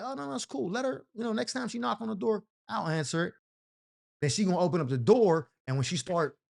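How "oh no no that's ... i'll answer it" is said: high, soft, sly and sweet; new girlfriend voice. Retold or imitated. New girlfriend calmly offering to answer the door, high and soft. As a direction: purr it up high, slyly calm. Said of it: "she'll be like".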